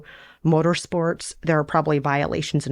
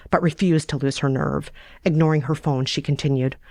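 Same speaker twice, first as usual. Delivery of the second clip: ordinary talk, nothing marked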